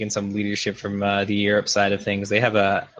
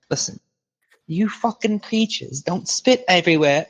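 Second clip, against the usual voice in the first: slow, high, put-on British accent of a stern boss; lightly mocking British boss, drawn out and higher; British boss impression; 7 semitones higher than usual. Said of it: "he'll be like; he's British".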